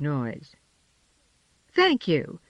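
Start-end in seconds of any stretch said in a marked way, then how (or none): 1.7-2.4 with dignity. A narrator's reading. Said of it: "said Harriet with dignity".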